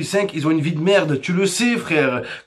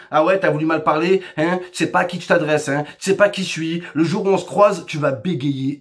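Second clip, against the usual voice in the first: put-on tough-kid threat; 5 semitones lower than usual. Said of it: "Ils aiment trop dire ça".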